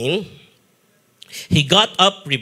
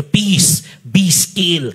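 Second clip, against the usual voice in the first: gentle blessing; much slower than usual. Retold or imitated. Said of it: "sabi niya".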